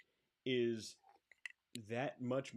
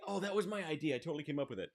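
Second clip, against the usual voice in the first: higher-pitched imitation of a would-be inventor; mock regret; 5 semitones higher, faster than usual. Cohost mimicking someone who missed their chance, mock regretful claim. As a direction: lightly act out someone claiming the idea too late. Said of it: "and you're gonna say".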